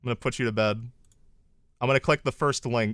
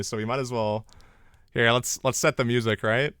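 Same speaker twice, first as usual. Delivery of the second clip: put-on boyfriend roleplay voice. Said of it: "boyfriend experience script".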